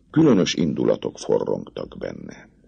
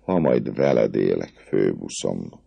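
tender; 4 semitones lower than usual. Acted. Girl answering her captain, tenderly. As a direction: murmur it lovingly. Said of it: "mondta gyengéden a leány".

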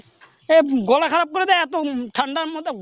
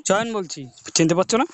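low, hoarse disguised voice; rough voice faking a sore throat; gravelly voice; 6 semitones lower than usual. Pretend. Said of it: "তোমার গলা তো এরকম না".

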